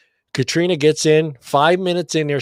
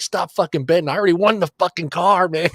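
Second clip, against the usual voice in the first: higher-pitched, retold giddy protest; excited outburst; 5 semitones higher than usual. Car winner to everybody betting, excited outburst. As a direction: act out telling everyone it's already won.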